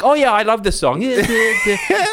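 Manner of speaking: mock delight. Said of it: "you're like".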